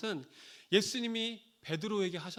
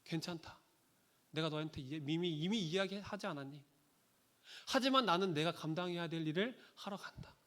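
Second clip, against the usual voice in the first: gentle reassurance; 3 dB quieter than usual. Retold or imitated. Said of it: "라는 눈빛으로 베드로를 바라보셨다".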